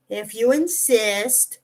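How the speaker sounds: slow, drawn-out playful concession; stretched-out, pretend-resigned reply; playful mock reluctance. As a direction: give in with teasing reluctance. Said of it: "It's a playful sigh of".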